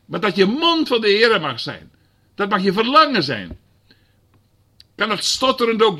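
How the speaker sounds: high, loud exhortation; fiery preaching. Real, not acted. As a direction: rouse the church to prophesy. Preaching at full force.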